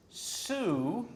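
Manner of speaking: "Su" with a hissed, unvoiced S; voiceless Su. Shown as a demonstration. Teacher demos the unvoiced syllable for students, hissed. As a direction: hiss the "Su" onset, no voice on the consonant. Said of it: "now try this".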